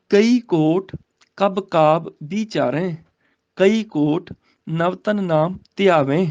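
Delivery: slow, measured verse reading; scripture recitation. Shown as a demonstration. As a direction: recite the sacred verse, drawing out the words.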